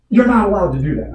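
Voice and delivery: high-pitched mock scolding yell; retold screaming. Roger screaming over at the jet skier, imitated yell. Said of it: "Roger comes screaming over".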